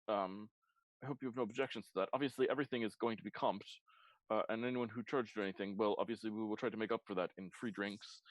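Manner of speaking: lightly voiced fussy elf host; a hint of a fussy, formal proprietor; fastidious elf. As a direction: deliver it as a mildly fussy elf. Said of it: "fastidious, uh, elf".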